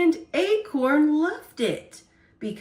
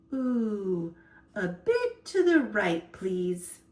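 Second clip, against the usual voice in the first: blissful sigh; 3 semitones lower than usual. Acted. Rain like a massage.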